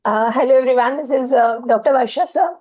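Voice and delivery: sore, strained throat; talking through a sore throat; bad throat voice. Real, not acted. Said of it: "Sorry for my voice. I'm having a bad throat".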